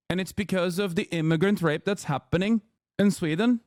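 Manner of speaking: sing-song Norwegian lilt, rising as it goes; mock Norwegian accent. Streamer mocking a Swedish chatter in a Norwegian accent. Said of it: "I'm doing a Norwegian accent".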